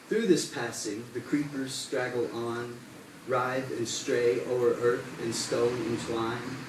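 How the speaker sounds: measured, formal verse recital; deliberate poem reading with falling line endings; poetry reading. Acted. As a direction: recite it in steady cadence, letting each line settle. Reads Brandywine poem aloud.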